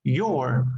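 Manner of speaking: "You're" drawn out and falling; stress on YOU'RE. Shown as a demonstration. Teacher pointing out the stressed word, "You're" emphasized. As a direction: stretch "You're" with weight. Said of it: "the stress or intonation should be here".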